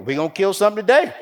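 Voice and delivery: giddy schoolboy glee, laughing the words out; gleeful laughing. Retold or imitated. Boy tells his friend about the frog, gleeful laughing.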